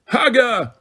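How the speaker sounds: high, hammed-up giant bellow. A narrator's reading. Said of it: "then bellowed".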